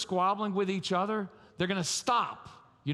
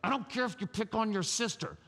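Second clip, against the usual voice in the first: upset dad. Acted. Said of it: "So you know what we're really saying?".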